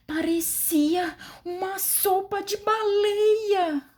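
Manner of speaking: high, slow, scared voice; trembling with fear; fearful. Shown as a demonstration. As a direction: say it as if frightened. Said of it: "eu falei com medo".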